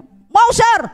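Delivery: high, keen yes; eager reply. Retold or imitated. Woman pleading to the boss, high and eager. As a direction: jump at the job offer.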